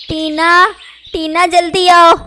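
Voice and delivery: high, loud urgent cry for help; loud shout. Acted. Injured mother calls Tina to come quick, shouting. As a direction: yell for the daughter to hurry. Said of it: "वो ज़ोर-ज़ोर से चिल्लाती है".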